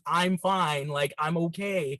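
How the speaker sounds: slow, low, half-conscious mumble; groggy. Retold or imitated. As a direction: barely get the words out. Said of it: "I'm able to let out the words".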